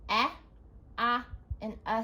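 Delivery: slow sounds. Shown as a demonstration. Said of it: "Let's say each sound slowly".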